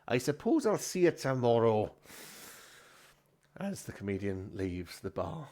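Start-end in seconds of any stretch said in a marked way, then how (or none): 0.1-1.9 lightly voiced grudging landlord; corrected character voice. Landlord bidding the comedian goodbye, in his corrected voice. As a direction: redo it in the character's own voice. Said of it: "he doesn't speak like that, does he?".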